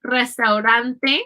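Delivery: "Restaurante" slowly, first R trilled, second a quick flap; rolled and flapped R. Shown as a demonstration. Teacher contrasts two R sounds, slow "Restaurante" with trill then flap. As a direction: trill the opening R of "Restaurante", tap the later one. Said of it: "the first R is rolled and the second R".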